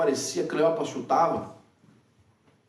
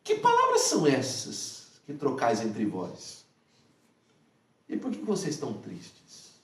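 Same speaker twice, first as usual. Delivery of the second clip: gentle question; 4 semitones lower, 3 dB quieter, slower than usual. Retold or imitated. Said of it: "Jesus aproxima-se deles e fala assim".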